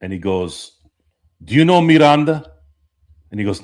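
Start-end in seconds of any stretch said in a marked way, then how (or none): 1.4-2.5 higher, louder tough-cop line; higher, punchier movie-cop voice; movie cop quote. Retold or imitated. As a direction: deliver it like a hard-boiled movie cop. Retelling a movie scene quote.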